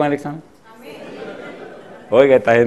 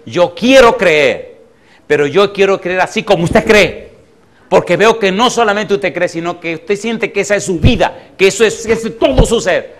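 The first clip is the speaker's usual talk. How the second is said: loud, urgent retold plea; impassioned plea; 3 semitones higher, 5 dB louder than usual. Atheist woman begging the pastor to pray for her, impassioned. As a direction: plead emphatically, leaning hard on the key words.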